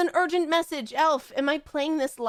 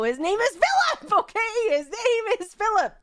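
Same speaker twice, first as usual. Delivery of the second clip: "His name is Philip" higher and louder, firm; insistent; 8 semitones higher, 3 dB louder than usual. Real, not acted. Overruling chat's name ideas, louder insistence. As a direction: insist "Philip" over the chat. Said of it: "God damn it, guys".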